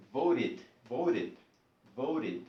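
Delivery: voted with a very short, light final id; barely touch the I in voted; light ending. Shown as a demonstration. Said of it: "Es muy leve".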